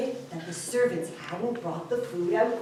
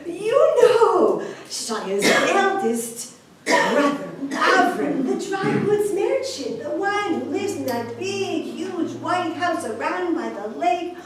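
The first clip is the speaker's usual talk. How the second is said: raised, emphatic explaining; insistent prompting; 5 semitones higher, 3 dB louder than usual. Acted. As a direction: spell out eagerly who you mean. Host insists on whom he means.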